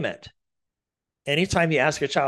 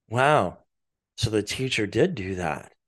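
calm, lowered voice; 3 semitones lower than usual. Shown as a demonstration. Parent repeating back calmly to an upset child. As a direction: bring the voice down and settle it. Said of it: "try to lower your voice and bring it calm".

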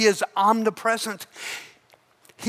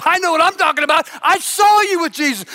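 high, fast, certain; insistent accuser; 7 semitones higher, 4 dB louder, faster than usual. Acted. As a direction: pin him down, rapid-fire. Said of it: "Another guy says".

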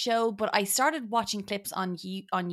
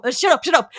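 mock exasperation; 5 semitones higher, 10 dB louder, faster than usual. Snapping back at the fake announcer.

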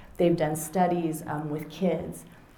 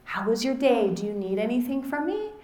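higher, bright hello to the daughter; cheerful greeting; 5 semitones higher than usual. Retold or imitated. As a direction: mom turning from the screen to Lucy, bright. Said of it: "and I'm like this".

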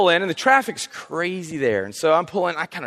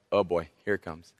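dread; 12 semitones lower, 9 dB quieter than usual. Retold or imitated. Dreading the confrontation.

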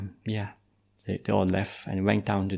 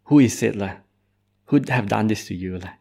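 angry parents; 4 dB louder than usual. Acted. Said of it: "And the parents got so angry".

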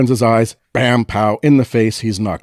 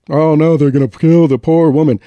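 mock panic; 6 semitones higher, 6 dB louder than usual. Acted panic retelling the film.

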